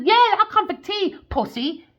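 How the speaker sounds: lightly voiced Trump taunting; mock Trump. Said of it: "Trump said".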